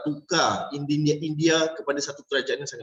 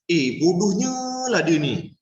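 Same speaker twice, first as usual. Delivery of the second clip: mock insult; 3 semitones higher than usual. Shown as a demonstration. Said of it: "Pemilihan perkataan".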